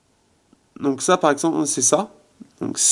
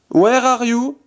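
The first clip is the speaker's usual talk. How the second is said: voice command; 8 semitones higher, much slower than usual. Shown as a demonstration. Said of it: "Alors je vais faire".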